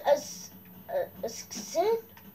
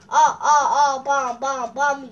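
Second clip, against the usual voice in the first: loud laughing shouts; 9 dB louder than usual. Real, not acted. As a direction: laugh out while hitting. Laughing while landing hits. (lachend und laut)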